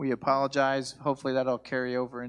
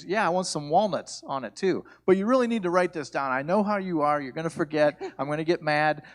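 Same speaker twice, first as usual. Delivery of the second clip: insistent wife; 4 semitones higher, 4 dB louder than usual. Retold or imitated.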